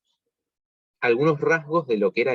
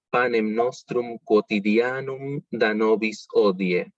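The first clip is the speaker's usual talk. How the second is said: "Panem nostrum quotidianum" said slowly, each syllable clear; slow it down so learners hear every sound; measured demonstration reading; slow careful reading; slower than usual. Shown as a demonstration. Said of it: "para que vean cómo se pronuncia".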